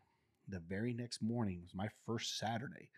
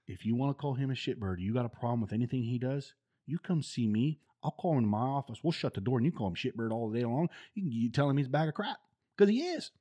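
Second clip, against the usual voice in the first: emphatic sergeant major; 4 semitones higher, 7 dB louder than usual. Retold or imitated.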